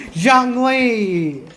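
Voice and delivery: excited exclamation. Real, not acted. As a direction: call the name out in sudden delight. Streamer suddenly recalls a favourite character.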